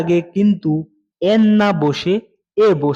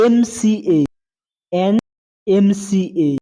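slow demo; much slower than usual. Shown as a demonstration. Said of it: "teacher models article before MCA".

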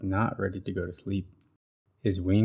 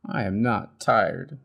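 cried. Acted. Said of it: "he cried".

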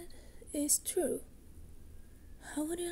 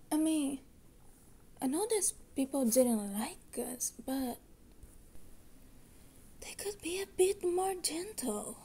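whisper; 2 semitones higher than usual. Acted. Sisters whisper complaints after waking.

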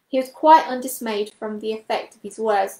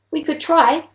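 higher, louder little mouse voice; piping field mouse; 6 semitones higher, 7 dB louder than usual. A narrator's reading. Field mouse offers to make the trip, piping up. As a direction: pipe up eagerly in a small creature's voice. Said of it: "piped up one of the field mice".

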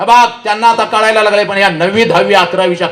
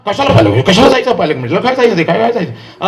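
lightly voiced dismissive parent, mimicked; mock a parent brushing off the school meeting; 2 semitones higher than usual. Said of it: "आमच्या आई आणि आमचा बाप". (नकार देणाऱ्या पालकाची हलकी नक्कल)

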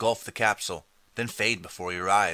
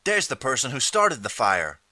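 raised, higher-pitched accusing cry; screaming accusation; 4 semitones higher, 4 dB louder than usual. Acted. Woman in cabin doorway accusing the stranger, mildly screamed. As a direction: call out an accusation, moderately loud. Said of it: "a woman screams".

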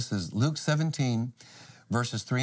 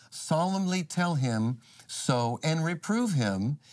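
deliberate, higher-pitched Bible reading; scripture reading; 4 semitones higher than usual. Acted. Preacher reads Luke to the listeners, scripture reading. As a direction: read out the verse with measured emphasis.

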